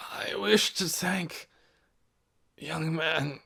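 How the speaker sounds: breathy, barely voiced old man; faint whisper. A narrator's reading. Sick old Ben thanking Doone in a faint whisper. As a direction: whisper it with failing strength.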